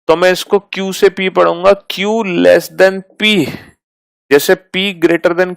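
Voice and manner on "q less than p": slow model reading. Shown as a demonstration. Teacher models reading of symbols.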